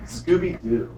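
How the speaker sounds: Scooby-Doo voice. Retold or imitated. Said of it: "the most infamous character".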